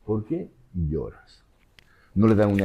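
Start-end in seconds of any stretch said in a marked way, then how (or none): 0.0-1.4 gentle question. Acted. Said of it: "No, no".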